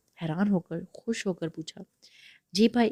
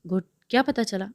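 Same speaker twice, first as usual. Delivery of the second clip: eager; 2 semitones higher than usual. Acted. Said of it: "Noman نے جوش سے پوچھا".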